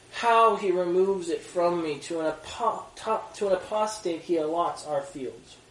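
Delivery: measured, solemn reading of Micah; scripture reading. Acted. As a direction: read it like a prophet's oracle. Reads scripture aloud.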